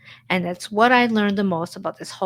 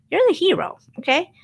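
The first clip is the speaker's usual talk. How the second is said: emphatic encouragement; 9 semitones higher, 3 dB louder, faster than usual. Real, not acted. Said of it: "encouraging the viewer".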